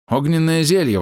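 high excited call; exclaim. Acted. Alchemist shouts as he throws the potion. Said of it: "воскликнул Храбр".

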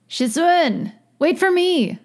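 high, drawn-out pleading call; whiny high-pitched cry; plaintive wail. A narrator's reading. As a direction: wail after someone leaving you behind. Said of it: "he wailed".

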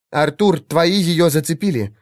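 plain reading voice

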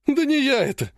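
pleading whine rising high on the denial; tearful whine. Acted. Ogonkov whining tearfully to Arina Ivanovna. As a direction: whimper it like a boy about to cry. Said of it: "плаксиво заныл он".

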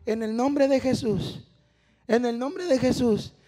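lightly imitated slow preaching drone; skinny preacher's delivery. Showing how the skinny man preached, slow droning delivery. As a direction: draw the phrase out slowly, mildly mocking. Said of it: "Así predicaba, mire".

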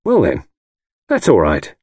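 a light, cheerful lift on well; husband mildly cheerful to the lawyer; cheerfully. A narrator's reading. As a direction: brush it off brightly. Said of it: "I said cheerfully".

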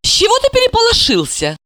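high, quick surprised question. Acted. Sasha to Gorokhov, high and surprised. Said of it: "Удивилась она".

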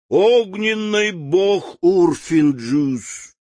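громкий медленный трубный рёв; протрубить медленно и громко, как зверь; трубный голос зверя. Acted. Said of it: "закричал трубным голосом". (трубный голос, громко и медленно)

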